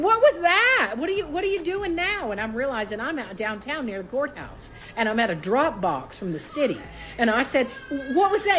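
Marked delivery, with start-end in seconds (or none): 0.0-2.3 retold panic; panicked cry. Panicking at courthouse drop box. 7.9-8.6 much higher alarm; urgent demand; retold panic; high panicked question. Panicking at drop box.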